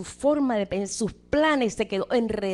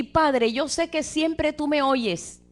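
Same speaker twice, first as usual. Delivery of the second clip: simple prayer; 4 semitones higher, much slower than usual. Acted. Jesus prays to the Father before calling Lázaro, assured prayer. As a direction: pray it slowly, with confidence. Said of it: "la oración fue así".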